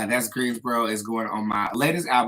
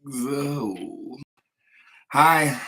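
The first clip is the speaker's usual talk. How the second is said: campy drag queen; much slower than usual. Acted. Campy livestream greeting to fans.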